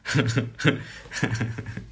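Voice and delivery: a soft, airless laugh at himself; quiet breathy laugh. Real, not acted. Chuckling to himself after rediscovering the formula. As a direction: laugh under your breath, amused.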